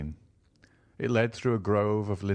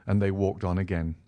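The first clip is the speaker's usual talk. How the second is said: plain reading voice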